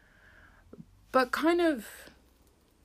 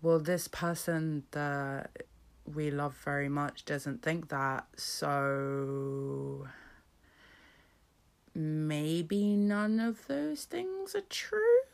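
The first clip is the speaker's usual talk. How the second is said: gentle self-reassurance; much slower than usual. Retold or imitated. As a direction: comfort yourself slowly and gently. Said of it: "a brief moment of".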